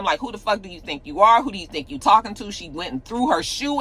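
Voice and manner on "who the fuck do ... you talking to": higher, quick, lightly imitated indignation; mock pissed-off. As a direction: act out a mild, offended challenge. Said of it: "she got pissed at him".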